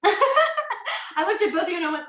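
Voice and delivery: laughing through words. Real, not acted. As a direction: giggle as you say it. Laughing at own mistake.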